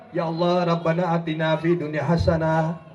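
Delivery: low, offhand mumbled prayer, just going through the motions; a lazy, routine plea tossed off; half-hearted prayer. Retold or imitated. Preacher mocks a congregant's careless prayer, low and offhand. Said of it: "Paling kalaupun datang".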